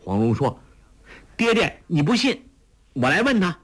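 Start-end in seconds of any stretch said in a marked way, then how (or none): 1.4-3.6 put-on high, fast girlish complaint; complaining daughter. A narrator's reading. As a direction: tattle to daddy, quickly. Huang Rong voiced.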